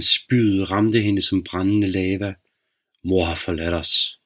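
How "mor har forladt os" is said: low father. Acted. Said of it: "Farens stemme væltede ud".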